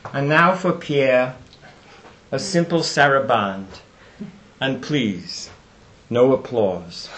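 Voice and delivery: slow, lightly imitated Brooklyn accent; solemn announcement in a Brooklyn accent, spaced with pauses; Isaac Stern. Violinist announcing an encore for his late conductor, slow Brooklyn accent. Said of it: "with a lovely Brooklyn accent".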